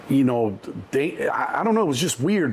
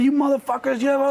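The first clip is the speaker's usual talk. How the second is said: fierce high curse; 12 semitones higher than usual. Retold or imitated. Mom cursing at gang.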